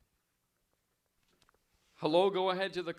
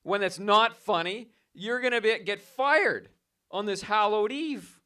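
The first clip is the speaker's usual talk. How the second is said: mock scolding; 4 semitones higher, 4 dB louder than usual. Host scolding prankster on air.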